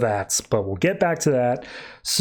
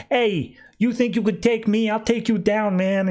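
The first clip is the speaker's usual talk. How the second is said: put-on light Brooklyn accent, pitched up; 5 semitones higher than usual. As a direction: imitate a Brooklyn tough guy issuing a challenge. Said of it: "Aluminum has a Brooklyn accent".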